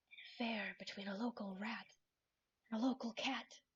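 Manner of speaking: conspiratorial, gossiping whisper. Voicing a character gossiping at a tea party: conspiratorial whisper. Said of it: "she leans in to whisper conspiratorially".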